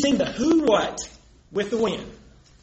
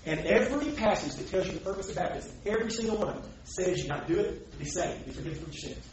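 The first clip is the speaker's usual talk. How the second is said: distant, much softer, dropping away; off the microphone; 3 semitones lower, 9 dB quieter than usual. Real, not acted. Debater addressing listeners away from the recorder, faint and off-mic. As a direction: keep preaching while moving away from the mic. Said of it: "it's not gonna be on the recorder".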